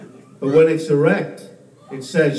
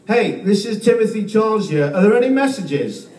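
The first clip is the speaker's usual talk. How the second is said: prank caller; 3 semitones higher than usual. Pretend. Prank caller finally posing as Timothy Charles, cheeky. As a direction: sell the punchline as Timothy. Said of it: "you go".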